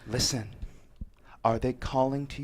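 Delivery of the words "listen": whisper. Acted. Threat whispered at her ear.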